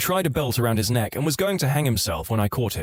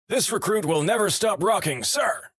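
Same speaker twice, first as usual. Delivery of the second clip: higher, shouted defiance up the scale; defiant yell; 8 semitones higher than usual. Retold or imitated. Recruit yelling back at his sergeant in defiance. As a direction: bellow it like a recruit standing his ground. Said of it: "To which Law yelled".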